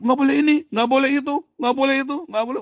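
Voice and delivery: high, loud scolding parent voice; nagging parent. Retold or imitated. Preacher mimicking a parent scolding a child, high and loud.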